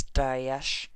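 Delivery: whispered name, full of warning; menacing whisper. Acted. Menacing follow-up.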